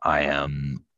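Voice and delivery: low, very slow pirate declaration; deep, drawn-out pirate ghost voice; ghostly pirate character. Acted. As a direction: intone it like the ghost of a ship.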